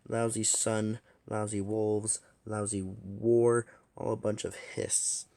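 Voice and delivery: slow, sour grumbling curses; cranky morning dragon muttering insults; grumpy cursing. Acted. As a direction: grouse at everything before coffee. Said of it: "please excuse my language".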